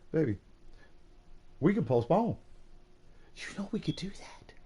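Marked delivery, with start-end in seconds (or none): 3.3-4.5 soft unvoiced coaxing whisper. Husband coaxing wife to skip the gala, whispering. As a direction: whisper it like a secret deal.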